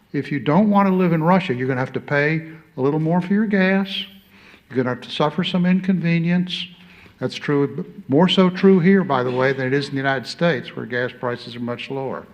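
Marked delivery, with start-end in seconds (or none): 0.1-6.7 higher and louder, driving the point home; rally the room, no hedging; emphatic appeal. Real, not acted. Ambassador urging the audience to pay the price, loud and emphatic. 8.1-9.0 emphatic aside. Real, not acted. Ambassador stressing that it matters more here, loud. Stressing point for local audience.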